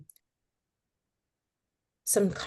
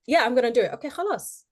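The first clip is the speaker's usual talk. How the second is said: mock eager; 5 semitones higher, much faster than usual. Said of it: "And so you're like".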